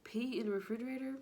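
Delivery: high, fast, scandalised question; appalled disbelief. Retold or imitated. Telling viewers about the pee jug, high appalled disbelief. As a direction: sound horrified at the idea. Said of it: "I'm like".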